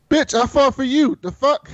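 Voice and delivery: Hound snapping back. Acted. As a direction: fire it back like an offended Hound. The Hound snaps back at Arya.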